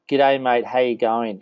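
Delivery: light demo of an Aussie greeting; Aussie accent. Shown as a demonstration. Host challenges guest to copy him, Aussie accent. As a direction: model a casual Australian accent. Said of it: "in your best Aussie accent".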